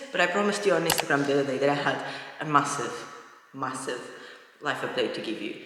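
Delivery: echoing empty room; big hall echo. Real, not acted. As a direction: voice bouncing off bare walls. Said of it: "sorry for the echoing".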